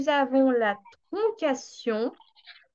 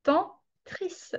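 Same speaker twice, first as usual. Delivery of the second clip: Tantris said higher with a rising end; 6 semitones higher than usual. Shown as a demonstration. Teacher to students, raising Tantris against Tristan. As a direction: lift Tantris to show the reversal.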